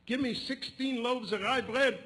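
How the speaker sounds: loud, high, drawn-out shouted order; hollering. Retold or imitated. Customer ordering from the baker, hollering. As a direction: holler it slowly across the shop. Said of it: "he hollers at the baker".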